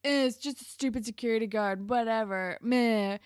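fast, bored, can't-be-bothered brush-off; dismissive shrug. Retold or imitated. Sean shrugging off his brother's shoplifting scolding, fast and dismissive. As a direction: wave it all away like it's nothing.

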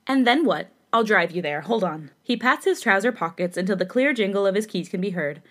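reading a fanfic aloud with light character voices; story reading. Acted. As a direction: read the story to a friend.

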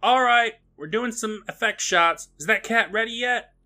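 high-pitched mock crew call; retold yell. Assistant calling for effects shots, retold high yell. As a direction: shout it out like an assistant on set. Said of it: "The assistant yells out".

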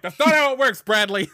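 high, loud mock scolding; exasperated dad. Chief mocking his son at the window. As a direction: scold the kid in a put-on voice. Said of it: "and I'm like".

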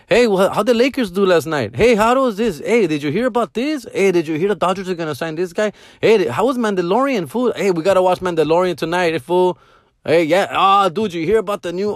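chatty pestering. Retold or imitated. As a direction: pepper them with bored, friendly questions. Acts out pestering kids in class.

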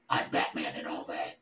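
very low mocking Batman voice. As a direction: drop way down, mock Batman. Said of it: "doing an impersonation of Batman".

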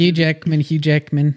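drilling an Aussie Hugh Jackman; Australian accent demo. Shown as a demonstration. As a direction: coach it twice in a light Australian accent. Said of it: "Just say it a couple times".

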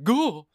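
mock groan. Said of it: "made you go like".

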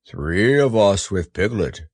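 slow, growly bear voice; solemn bear. A narrator's reading. Pooh reminds Christopher Robin about Piglet, solemn bear. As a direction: add it slowly, as the bear.

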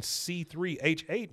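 measured teacherly recital without shouting; deliberate recital. Retold or imitated. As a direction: recite each symbol slowly for a learner. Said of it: "if you wanna remember the chemical formula".

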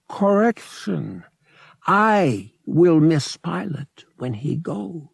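high, slow, alien catlike rasp; a slow, strange creature speaking English; alien Togorian voice. Acted. Togorian copilot to Han about his leaving, alien voice.

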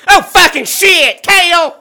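furious yelling scream; crying with rage. Acted. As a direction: shout in shocked rage. Snake dick wakes, scream.

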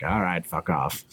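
grudging low-voiced brush-off; bouncer. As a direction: give in like an unimpressed bouncer. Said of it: "the guy's like".

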